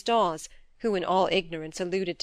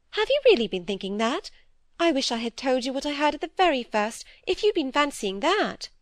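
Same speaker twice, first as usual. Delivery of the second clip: higher, fretful little-sister voice; timid younger sister; 6 semitones higher than usual. Acted. Phoebe fearfully confessing to her sister, higher anxious pleading.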